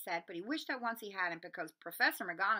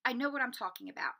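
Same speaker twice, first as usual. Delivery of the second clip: short; 3 semitones higher, 6 dB louder than usual. Acted. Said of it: "she said shortly".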